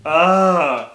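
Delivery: loud, drawn-out "ugh"; groan, utterly over him; exasperated groan; disgusted groan. Real, not acted. Disgust at a hated character.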